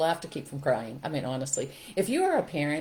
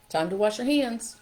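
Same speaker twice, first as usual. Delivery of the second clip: friendly, light invitation to wash up; gentle reminder; 5 semitones higher, 3 dB louder than usual. Shown as a demonstration. Parent inviting a kid to wash hands, gently. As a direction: make it sound like an easy routine. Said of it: "This is simple".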